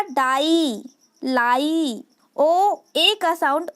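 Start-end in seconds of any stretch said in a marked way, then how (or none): 0.0-2.0 डाई, लाई with stretched "eye" endings; slow phonics examples, "daaai, laaai"; long I sound. Shown as a demonstration. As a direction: hold the final vowel in डाई and लाई. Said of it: "आई का sound आएगा".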